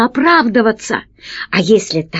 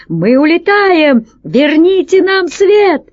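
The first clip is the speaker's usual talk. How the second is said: high, drawn-out desperate cry; acted wail of surrender; panicked shout; 8 semitones higher, 3 dB louder, slower than usual. A narrator's reading. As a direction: call out begging for mercy. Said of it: "закричал крыс".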